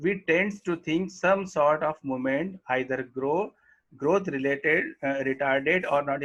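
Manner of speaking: reading the English line very slowly; slow textbook reading. Acted. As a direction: dictate each word to the class. Reads textbook line aloud slowly. (पाठ्यपुस्तक से धीरे-धीरे पढ़ना)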